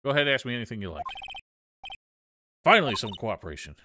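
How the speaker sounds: bossy but friendly Southern woman; brash Southern photographer. Acted. Plays Southern photographer, now cooperative.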